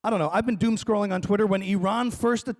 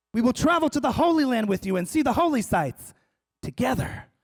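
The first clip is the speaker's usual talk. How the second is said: lightly voiced, higher evangelical pledge; hint of Southern evangelical; 5 semitones higher than usual. Evangelical inviting Jews along, mildly fervent. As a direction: lift it into mock earnest promise. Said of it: "these were, like, Southern evangelicals".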